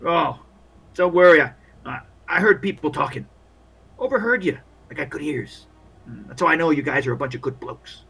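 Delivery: lightly voiced matey old hand; overly cheery soldier. Soldier advising the walking wounded on the nurse, chummy. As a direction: play him chummy, talking up his new pals. Game master plays a soldier.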